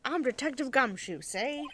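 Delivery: loud gruff noir detective; old-time gangster cop, see; Gumshoe voice. Acted. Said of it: "I can't do the Gumshoe voice".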